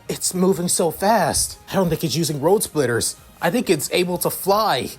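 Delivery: amazed. Acted. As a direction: realise it's flying.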